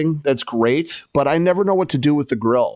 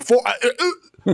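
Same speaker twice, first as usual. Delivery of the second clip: tag omitted; 9 semitones higher, much slower than usual. Retold or imitated. Mimics stammering reaction to parking price.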